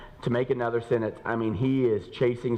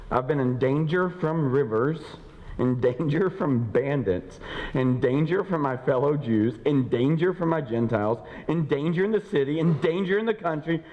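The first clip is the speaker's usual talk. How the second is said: slow, building list of dangers; scripture read as a litany; 3 semitones higher than usual. Acted. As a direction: lay out each danger deliberately. Slow emphatic list reading.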